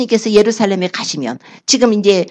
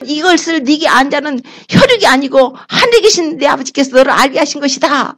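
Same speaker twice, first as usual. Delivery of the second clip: Jesus rejoicing over Peter, lifted high; overjoyed; 6 semitones higher than usual. Acted. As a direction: burst with a master's joy at the answer. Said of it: "너무 기쁘셔가지고".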